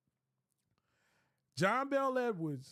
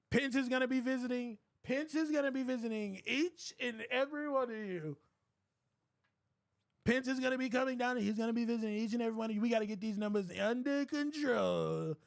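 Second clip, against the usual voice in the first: rambling Trump impression. Impression of forty-five on call.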